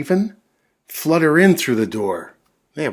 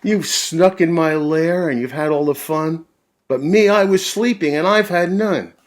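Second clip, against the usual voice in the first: grumpy bear complaint; 7 semitones higher, 6 dB louder than usual. Acted.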